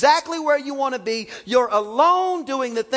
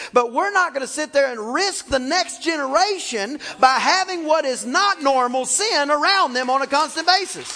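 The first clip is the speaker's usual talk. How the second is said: preaching; 3 semitones higher than usual. Acted. Preacher urging parents to guard children, fervent preaching. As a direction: preach it with rising conviction.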